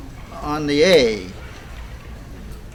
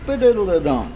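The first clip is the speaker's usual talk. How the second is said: "ba-diddle-a-dum" as a rhythm, "ba" short just before the beat; quick "ba" leading into "diddle-a-dum"; short pickup note. Shown as a demonstration. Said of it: "get the short note just before the beat".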